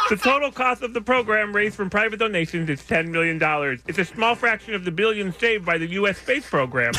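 laughing through a mouth guard; giggly news read around a mouth guard. Real, not acted. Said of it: "just watching the saliva buildup".

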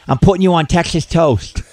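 lateral lisp, lightly imitated; slushy lisp. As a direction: talk through a slushy lisp. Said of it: "he had a lateral lisp".

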